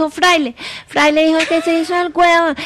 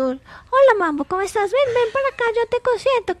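affectionate greeting; 6 semitones higher, 3 dB quieter than usual. Shown as a demonstration. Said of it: "Entonces tú".

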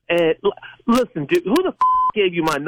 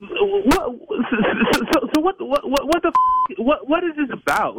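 agitated outburst; 7 semitones higher than usual. Real, not acted. Prank victim gets agitated.

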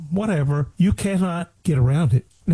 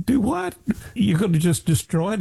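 sharp high disbelief; incredulous; 6 semitones higher than usual. Real, not acted. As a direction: cry out in disbelief. Outraged disbelief at destroying medicine.

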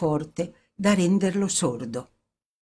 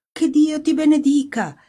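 high, louder blessing; father's exclaimed blessing; 10 semitones higher, 5 dB louder than usual. A narrator's reading. Father blessing his daughter, exclaiming high and loud. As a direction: proclaim it, pitched well up. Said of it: "le disse all'orecchio la voce di suo padre".

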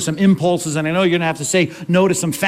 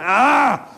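exasperated groan; 6 semitones higher than usual. Pretend. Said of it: "He's like".

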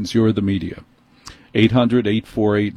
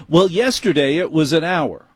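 dismissive manager; 6 semitones higher than usual. Retold or imitated.

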